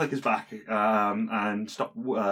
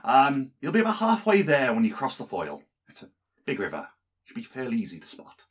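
a hint of a friendly farmer voice, higher; lightly voiced farmer; 3 semitones higher, 3 dB louder than usual. GM voicing the farmer giving directions, a lightly voiced local. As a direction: GM as farmer, lightly raised pitch.

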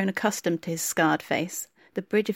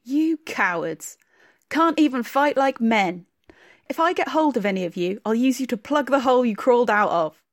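contemptuous shout; 4 semitones higher, 4 dB louder than usual. Acted. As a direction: drag out each word to shame them. Blacksmith shouts after retreating men.

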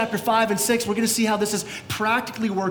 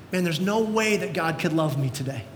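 discouraged; 4 semitones lower, 3 dB quieter than usual. Acted. Voicing a discouraged churchgoer.

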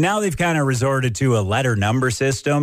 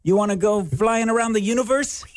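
sci-fi hero voice; 13 semitones higher than usual. Acted. Playing out a Star Wars scene.

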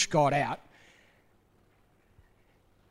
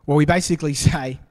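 words broken by a real laugh, louder and quicker; 6 dB louder, faster than usual. Real, not acted. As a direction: laugh through it, amused at us. Laughs at human excuses.

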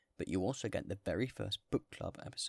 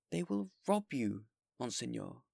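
worried warning; 3 semitones higher, 4 dB louder than usual. Acted. Mayor warning.

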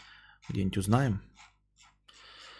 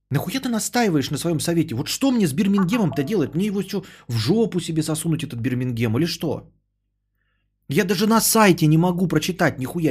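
ordinary delivery

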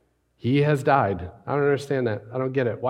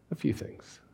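whispered, voiceless aside; 4 semitones higher, 9 dB quieter than usual. Real, not acted. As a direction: lean in and whisper it. Quiet aside in sermon.

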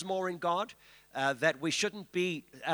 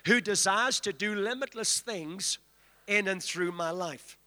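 leading a declaration. Shown as a demonstration. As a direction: lead the congregation's declaration. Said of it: "Lift your hands and say".

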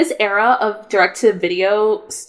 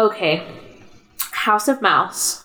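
sounding high; slower than usual. Real, not acted. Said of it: "you're so high right now".

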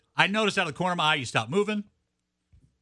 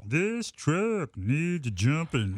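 slow country drawl; 2 semitones lower, much slower than usual. Pretend. Country singer voice parody.

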